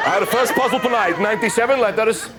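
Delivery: very slow, drawn-out announcer welcome; game show host. Pretend. Comic parodying a game show host, drawn-out welcome. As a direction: stretch every word like a TV host opening the show.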